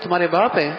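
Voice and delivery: تمہارے باپ asked as a question; questioning tune over تمہارے باپ. Shown as a demonstration. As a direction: make تمہارے باپ an enquiry. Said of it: "استفہام اور سوال بھی ہو".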